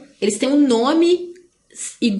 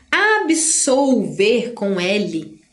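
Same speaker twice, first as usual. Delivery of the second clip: Absolver spelled out very slowly, each syllable clear; slow dictation of Absolver; slow teaching emphasis; 2 semitones lower, much slower than usual. Shown as a demonstration. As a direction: drag out Absolver com L for the class. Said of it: "Olha só".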